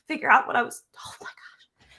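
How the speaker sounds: breath-only whisper, choked up; words collapse into a tearful whisper; fighting tears. Real, not acted. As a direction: near tears, voice fails to a whisper. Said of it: "I'm trying not to cry".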